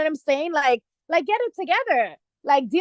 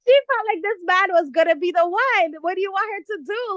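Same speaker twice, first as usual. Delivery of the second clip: laughing; 4 semitones higher than usual. Real, not acted. Still laughing after a fit.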